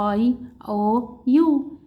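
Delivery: "اي او يو" slowly, as letter names I, O, U; long vowel names. Shown as a demonstration. Teacher lists long vowels for a learner, "اي او يو" slow and drawn out. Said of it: "ده اللونج فاول".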